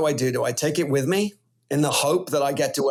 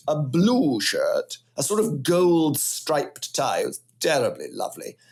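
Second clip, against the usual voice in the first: mock posh English. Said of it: "trying to speak in a fancy voice".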